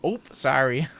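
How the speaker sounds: quick Midwestern "oop" apology; Midwestern accent. Shown as a demonstration. Midwesterner apologizing after a bump, mild Midwestern accent. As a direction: demonstrate your own mild Midwestern "oop, sorry". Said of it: "and I do that. I go".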